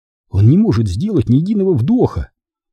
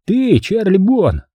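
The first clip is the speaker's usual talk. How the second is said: menacing call; 9 semitones higher, slower than usual. Acted. Manfred calls out to Charlie.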